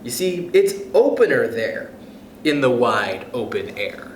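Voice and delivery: lively storybook read-aloud voice; expressive picture-book reading; reading to children. Acted. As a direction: read it to a class of kids, bright and sing-song. Teacher reads picture book aloud.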